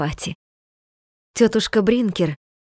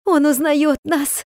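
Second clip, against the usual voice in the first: высоко, медленно, с ликованием; выкрикни радость, не веря счастью; радостный крик; 6 semitones higher, slower than usual. Acted. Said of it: "кричала тётушка Бринкер". (мать кричит детям, что отец узнаёт их, восторженно)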